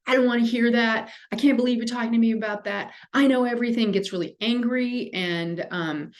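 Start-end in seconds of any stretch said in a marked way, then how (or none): 0.1-3.9 mock overreactive kid. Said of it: "that kid just gets overreactive".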